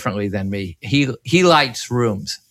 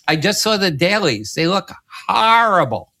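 higher, disgusted editor voice; mock scolding editor; 6 semitones higher than usual. Editor telling the cameraman his dailies are bad, mock disgusted and higher. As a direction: play the appalled editor, pitched up.

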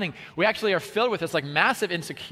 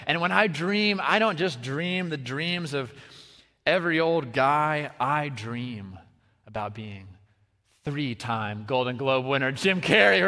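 Jim Carrey; slower than usual. Retold or imitated. Comedian telling the audience his grand dream, mock-solemn. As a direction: stretch out the dream with dramatic pauses. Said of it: "he's like".

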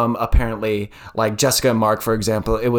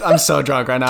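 put-on drunk crying. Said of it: "she ends it with".

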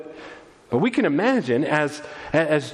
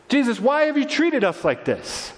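higher-pitched pleading reproach; mild rebuke; 8 semitones higher than usual. Acted. Mother questioning her son Jesus, mildly rebuking. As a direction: put the reproach as a pained question. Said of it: "gives him a mild rebuke".

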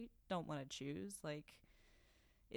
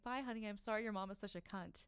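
put-on higher, sugary baby talk to a dog; mock sweet to dog; 4 semitones higher than usual. Kendall talking to Kylie's dog, mock sweet. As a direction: coo at the dog while dissing its owner. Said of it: "she turns to Kylie's dog".

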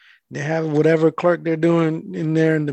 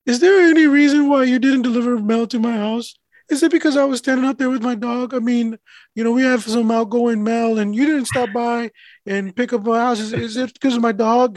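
higher-pitched, articulate imitation of a customer; suddenly clear speech; 6 semitones higher than usual. Mail carrier imitating customer asking about undelivered mail, clear and articulate. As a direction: question him in full, clear sentences.

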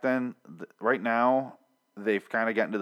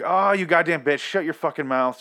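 loud, raised retold outburst; exasperated scolding; 6 semitones higher, 5 dB louder than usual. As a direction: snap at the screaming character in exasperation. Retells yelling at screaming character.

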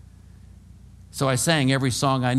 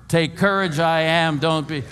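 raised voice, not yet full shout; run together as one word; 3 semitones higher, 4 dB louder than usual. Shown as a demonstration. Preacher leading congregation, raised voice run as one word. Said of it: "One word".

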